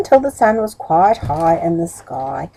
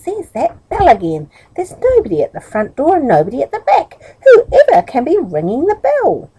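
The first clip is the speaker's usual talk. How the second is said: exclaiming; 7 semitones higher than usual. Acted. Woman exclaiming downstairs.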